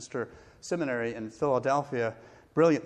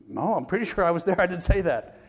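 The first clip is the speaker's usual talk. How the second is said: laughing protest; 5 semitones higher, 5 dB louder than usual. Retold or imitated.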